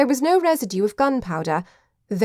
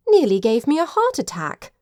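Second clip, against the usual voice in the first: higher-pitched, startled complaint; startled distress; 6 semitones higher than usual. A narrator's reading. Ginger after the old chair nearly gave way, startled distress. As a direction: exclaim with a jolt of fright. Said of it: "sound of his mistress's distress".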